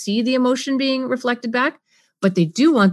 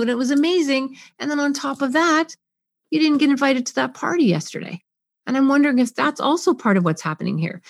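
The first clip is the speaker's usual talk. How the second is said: slightly higher, sympathetic musing; wondering aloud; 5 semitones higher than usual. Shown as a demonstration. Parent wondering about the missed party, sympathetic. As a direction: wonder gently with them. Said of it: "I can wonder out loud".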